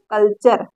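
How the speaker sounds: teacher's answer "कल्चर", low with an "ar" ending; "ture" read as "char". Shown as a demonstration. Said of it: "इसको क्या पढ़ा जा रहा है".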